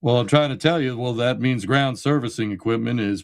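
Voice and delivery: light Hank Hill style Southern drawl. Retold or imitated. Host joking about propane in a mild Southern drawl. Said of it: "Propane and propane accessories".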